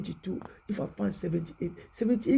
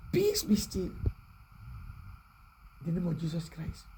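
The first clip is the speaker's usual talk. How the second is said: whispered blessing; 3 semitones lower, 4 dB quieter than usual. Real, not acted. Preacher blessing the room, in a soft whisper. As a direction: let the blessing fall to a whisper.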